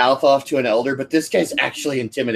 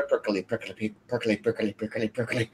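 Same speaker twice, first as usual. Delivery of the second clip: low muttered rapid-fire repetition, much softer; 4 semitones lower, 11 dB quieter, much faster than usual. Shown as a demonstration. Demoing how the character sounds to the table, low and rapid fire. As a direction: rattle it off low and fast under the breath. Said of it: "very low and very rapid fire".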